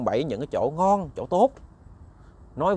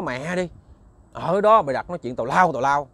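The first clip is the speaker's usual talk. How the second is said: rude dismissal. Acted. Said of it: "cách nói ... mất dạy".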